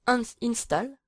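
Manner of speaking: "install" said in English with a heavy French accent, jokingly; English word "install" in a thick French accent. Real, not acted. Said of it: "avec mon super bel accent".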